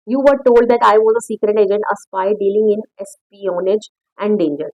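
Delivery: reads the English line slowly and carefully; slow story reading. Acted. Teacher reading the story text aloud to students, slow and careful. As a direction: spell out the text slowly for the class.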